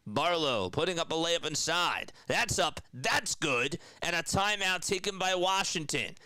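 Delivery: excited courtside commentary; live play-by-play. Real, not acted.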